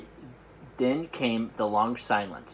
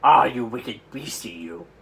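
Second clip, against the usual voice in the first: scolding cry; 7 dB louder than usual. Acted. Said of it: "he cried".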